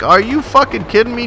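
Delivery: high, loud outraged question; furious disbelief at teammates; high, loud are you fucking kidding me; exasperated. Retold or imitated. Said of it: "I'm like".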